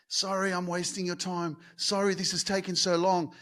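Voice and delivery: softly apologetic, a touch embarrassed. Retold or imitated. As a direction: say sorry softly, as if you're taking up someone's time. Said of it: "she kept saying sorry to me".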